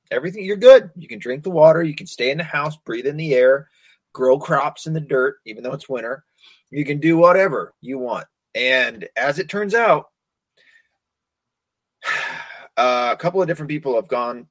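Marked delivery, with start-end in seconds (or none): 0.1-8.3 mocking officials. Mocking EPA reassurances.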